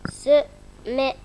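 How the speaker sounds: "Semaine" sounded out as se-maine, syllable by syllable; syllabic reading. Shown as a demonstration. Pupil reading aloud for teacher, syllable by syllable. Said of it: "la lecture syllabique".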